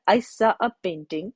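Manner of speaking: "I saw a painting" read at half speed; slow example. Shown as a demonstration. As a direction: read the example sentence slowly to the class. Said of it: "एक example लिखा है". (उदाहरण को धीमे पढ़ना)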